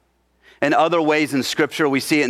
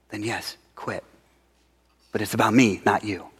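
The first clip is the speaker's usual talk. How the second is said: gentle low voice of God; 3 semitones lower than usual. Retold or imitated. God's reply retold, soft.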